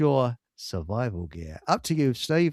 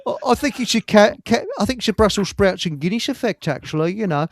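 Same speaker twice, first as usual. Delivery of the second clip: put-on a quick jokey Welsh accent, higher; 4 semitones higher, 4 dB louder than usual. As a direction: put on a Welsh lilt for a laugh. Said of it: "That was a good Welsh accent".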